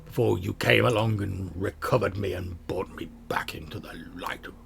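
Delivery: whispered sword voice in his head; voice of the Sun Sword. Acted. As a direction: breathe it like a voice inside the skull. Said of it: "you hear the voice of the Sun Sword".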